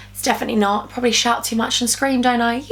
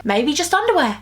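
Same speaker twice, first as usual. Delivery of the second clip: playful higher take; 3 semitones higher than usual. Shown as a demonstration. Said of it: "repeats it flatter".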